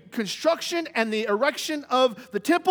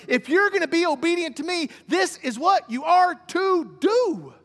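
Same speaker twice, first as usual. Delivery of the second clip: commanding God voice; 6 semitones higher than usual. Acted. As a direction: lay down the law as God to Moses. God's command to Moses, emphatic.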